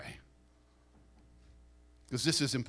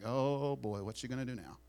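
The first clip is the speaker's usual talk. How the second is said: hushed gossip; 2 semitones lower, 7 dB quieter than usual. Retold or imitated. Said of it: "they're like".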